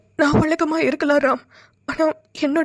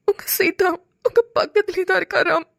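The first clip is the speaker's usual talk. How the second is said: tearful reassurance; 3 semitones higher than usual. Acted. Seetha telling Ram she is right beside him, tearful reassurance. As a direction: comfort him through your own tears.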